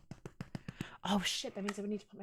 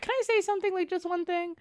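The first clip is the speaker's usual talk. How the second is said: lightly voiced friend, higher and loud; imitated pleading friend; 11 semitones higher, 5 dB louder than usual. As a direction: imitate a friend eagerly asking to speak. Friend's timid request voiced in story.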